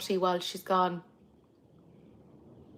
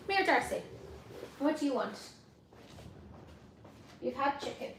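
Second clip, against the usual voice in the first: much softer, whispered pet talk; soft whisper to the dog; 3 semitones higher, 15 dB quieter, faster than usual. Real, not acted. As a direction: murmur tenderly to the dog. Murmuring to the dog off mic.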